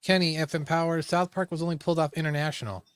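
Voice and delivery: lisping around cotton in the mouth. Real, not acted. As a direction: talk with a wad of cotton in your mouth. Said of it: "if you hear me talking with a little bit of lisp".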